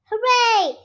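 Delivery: high, loud cheer of hooray; excited children's shout. A narrator's reading. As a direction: shout it out with joy. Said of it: "shout Peppa and George".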